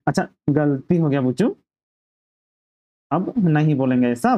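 gently acted, coaxing apology; affectionate. Dharmu promises his friend not to repeat it, affectionately. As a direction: make up with a touch of tenderness. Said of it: "बुच्चू प्यार से बोल रहा है".

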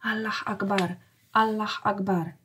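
subdued, awed repetition; as if afraid. A narrator's reading. Cowed man repeats it on hearing the leader's name, frightened. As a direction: repeat it under a touch of fright. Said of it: "jął powtarzać jakby z przestrachem".

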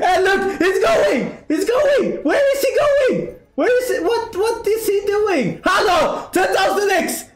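high, squealing excitement with laughs; shrieking jackpot winner. Real, not acted. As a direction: shriek over a huge jackpot. Huge slot win on stream.

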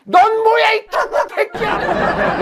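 high yell collapsing into a laugh; shout into laughter. Retold or imitated. Narrator shouting the next curse and laughing through it. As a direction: start yelling, then crack up.

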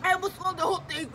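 rushed after coughing; gasping words after a cough; choking on candy. Real, not acted.

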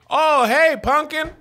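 high, sweet pet-name greeting; mock casual greeting. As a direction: chirp it at your aunt like a pet. Calling elder aunt pumpkin.

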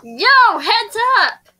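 America voice. Acted. American student warning a girl on the field, urgent call. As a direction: call out as a cocky American teen. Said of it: "You can do America voice".

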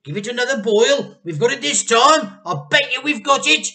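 high, loud eager boasting; gleeful excitement. A narrator's reading. Mr Cranky sure the medicine will work, high excited boast. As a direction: crow with certainty.

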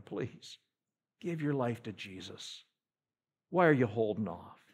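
hushed begging to a friend; soft pleading. Retold or imitated. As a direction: plead quietly with someone. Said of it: "we just pleaded with them".

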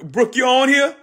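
high, loud call across the room; high excited call to a friend. Real, not acted. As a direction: sing out her name to get her attention. Calling out to viewer Brooke.

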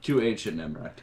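mock-grave insistence on the route; emphatic warning tone. Real, not acted. Player vetoes a route from past runs, emphatic warning. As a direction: lay down the rule, leaning on never. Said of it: "Kobe says it in that tone".

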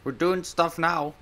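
high, loud whoop of victory; triumphant cheer. Real, not acted. Gamer finally succeeding, high triumphant cheer. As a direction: celebrate the win.

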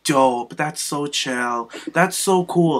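lightly imitated chilled-out Cali talk; Eva Marie. Fan showing how Eva really talks, laid-back impression. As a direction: draw the words out, laid-back surfer-girl style. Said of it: "She's always like".

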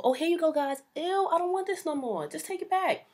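high, loud sing-song waitress voice; chirpy server voice, high and loud; mock waitress. Mocking waitress handing plates.

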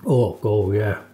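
muffled through food; mumbling while eating; mouth full, chewing. Real, not acted. Seen 0: Bites tart at -7; lips closed, jaw working through labelled words.

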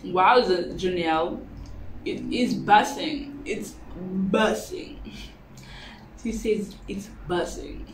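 speaking between bites; talking while chewing. Real, not acted. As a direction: mouth partly full. Seen 0: Holds bitten pepper at mouth; bite appears mid-speech, eats before and after.

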